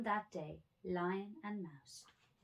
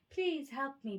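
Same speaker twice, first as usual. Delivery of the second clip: higher, louder plea; pleading lion; 9 semitones higher, 6 dB louder than usual. A narrator's reading. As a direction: beg for help. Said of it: "pleaded Lion".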